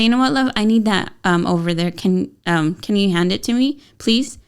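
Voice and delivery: put-on gentle loving ask to a child; sweet request. Shown as a demonstration. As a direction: ask kindly, like a patient mom. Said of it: "can I just say".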